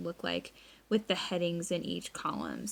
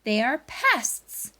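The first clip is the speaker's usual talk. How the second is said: dad's firm voice; 5 semitones higher, 4 dB louder, slower than usual. Retold or imitated. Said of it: "he says".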